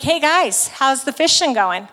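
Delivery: lightly acted call to a group; casual calling out. Man on shore hailing the fishermen, casual calling out.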